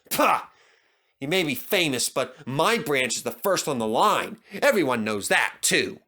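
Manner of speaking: a touch of jealous scorn; huffy, dismissive engine; jealous huff. Acted. Thomas sniffing at Stepney's fame, mildly jealous. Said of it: "Thomas was feeling a little jealous".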